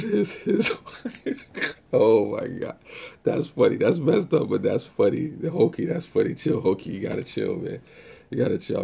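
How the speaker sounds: cracking up, voice jumping high and loud; trying not to laugh. Real, not acted. Streamer cracked up by a viewer's joke, laughing. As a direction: talk through real, helpless laughter. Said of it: "I'm trying not to laugh".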